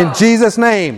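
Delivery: firm, projected declaration; like you mean it. Shown as a demonstration. Preacher leads congregation in declarations against worry, firm and meaning it. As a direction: declare it with conviction for a crowd to repeat. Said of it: "say it like you mean it".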